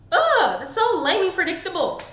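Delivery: a loud ugh, then fed-up scorn; real annoyance at a lame plot; exasperated groan. Real, not acted. Reviewer to viewers, a loud exasperated groan. Ranting about a cliched plot twist.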